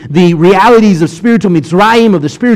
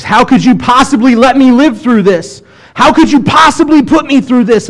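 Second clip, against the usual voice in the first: whiny complaint; 8 semitones higher, 3 dB louder than usual. Retold or imitated. Complaining to God in trials.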